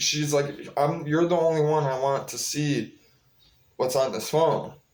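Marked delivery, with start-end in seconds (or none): 1.1-4.7 mimicked muttering under the breath. Recounting what a woman told him about her phone: imitating a mutter under breath. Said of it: "under her breath".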